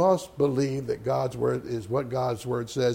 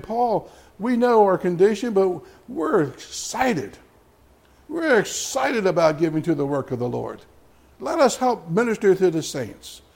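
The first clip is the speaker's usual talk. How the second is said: excited; 4 semitones higher than usual. Retold or imitated. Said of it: "church of Macedonians were saying".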